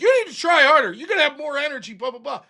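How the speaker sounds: hammed-up nagging manager; imitating rude boss. Boss rushing the old man, mock nagging. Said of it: "She's like".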